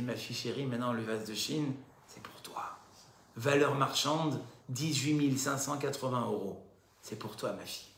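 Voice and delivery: hushed tender farewell to a daughter; tender mother. Retold or imitated. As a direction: hand it over gently like a fond mother. Mother hands heirloom to daughter.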